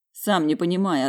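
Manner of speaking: plain reading voice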